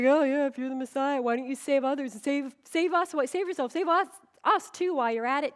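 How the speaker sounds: a hint of a mocking criminal; lightly voiced sneering taunt. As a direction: jeer at him. Criminal taunting Jesus on cross.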